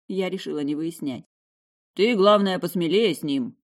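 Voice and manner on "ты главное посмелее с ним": loud, hearty encouragement; centaur's advice. A narrator's reading. The centaur chairman urging the girl on, loudly hearty. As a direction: boom it out like a big old centaur. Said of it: "посоветовал председатель комиссии".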